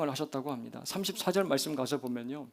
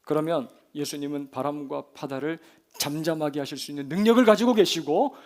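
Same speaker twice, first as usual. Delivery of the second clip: normal talking voice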